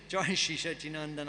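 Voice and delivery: laughing through it. Real, not acted. Teacher stumbling over the verse and chuckling at himself, laughing through it. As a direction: read through a small real laugh. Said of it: "I'll read that again".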